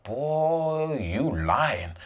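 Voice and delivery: put-on quiet, sassy boy you lying; knowing sass. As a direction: let her know you see right through him. Woman's mannerisms change, knowing look.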